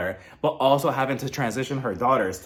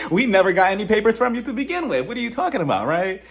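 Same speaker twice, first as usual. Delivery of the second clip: indignant state voice; 7 semitones higher, 4 dB louder than usual. Retold or imitated. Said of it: "the state of Virginia is looking at this episode like".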